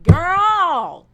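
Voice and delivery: loud high exclaim. Real, not acted. Telling the story of the loud women, high loud Girl.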